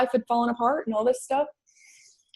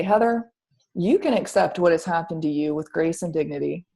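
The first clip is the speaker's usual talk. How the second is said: measured, calm voice of guidance. Retold or imitated. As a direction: deliver a solemn choice calmly. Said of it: "a voice very calmly say".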